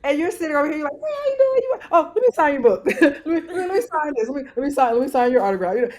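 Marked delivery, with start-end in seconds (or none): 0.9-5.8 eager author. Retold or imitated. Author at signing table hailing readers, mock over-eager. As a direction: act out pestering passers-by, starting pitched way up.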